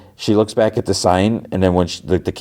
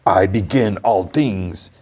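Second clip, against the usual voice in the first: grand declaration; slower than usual. Retold or imitated. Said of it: "It, like, echoes".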